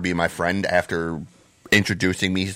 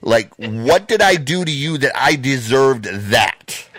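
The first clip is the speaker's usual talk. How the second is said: higher, louder wounded outrage; mock indignation; 5 semitones higher, 4 dB louder than usual. To the college friend who played him the band, mock wounded indignation. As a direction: demand to know what you did wrong.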